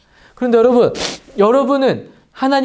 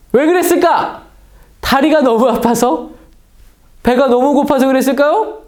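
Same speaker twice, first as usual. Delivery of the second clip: higher, louder questioning; rhetorical questions; 5 semitones higher, 4 dB louder than usual. Real, not acted. Preacher asking the children why, higher and louder. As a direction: ask them as if guessing.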